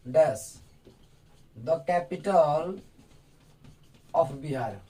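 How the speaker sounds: the capital of Bihar dragged out with long gaps; teacher reading out a sentence very slowly; very slow dictation. Shown as a demonstration. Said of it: "जैसे हमने बोला".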